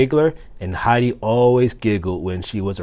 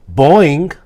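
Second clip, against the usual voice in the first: bouncy, loud boing; spring it out like a frog; 7 semitones higher, 9 dB louder than usual. A narrator's reading. Frog answering hamster with a boing.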